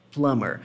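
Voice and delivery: 'Plumber' with the B left out; low-pitched model 'Plumber', no B after the M; silent B. Shown as a demonstration. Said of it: "Como se esse B não existisse".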